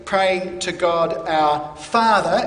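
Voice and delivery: slow, with Father leaned on hard; slowly, pressing the word Father; stress on Father. Shown as a demonstration. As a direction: land the weight on Father. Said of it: "emphasis on the word Father".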